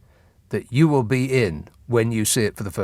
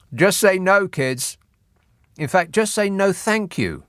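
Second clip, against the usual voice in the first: mock public service announcement; 6 semitones higher than usual. Mock anti-drugs slogan.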